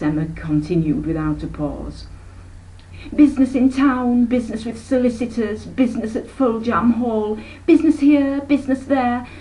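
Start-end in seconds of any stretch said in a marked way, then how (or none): 3.1-9.3 high, loud, listing each "business" with a swoop; a fussy aunt piling up her husband's importance; rising prattle. Acted. Aunt Emma boasts of Darnell's business, high and loud.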